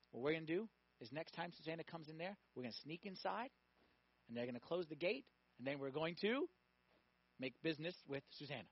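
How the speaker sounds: hushed plotting between accomplices; conspiratorial plotting. Acted. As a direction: lay out the plan furtively, in pieces. Two old men plot secretly.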